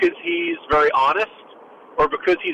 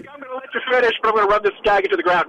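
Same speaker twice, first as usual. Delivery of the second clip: pitched-up, hurried mock interruption; Tim Kaine; 5 semitones higher, faster than usual. Panelist running the gag into the ground, mock interrupting. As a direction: cut in quickly as a pushy interrupter. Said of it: "that's my Tim Kaine impression".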